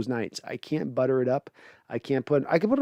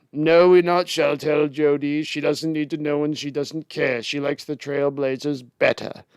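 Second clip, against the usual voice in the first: lightly mocked British accent. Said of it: "evil British accents".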